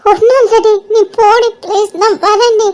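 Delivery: choking back tears while pleading; tearful, faltering. Acted. Pleading with a friend to leave, tearful and faltering. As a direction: stumble on the words, close to crying. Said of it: "அழுவுறியாடி?".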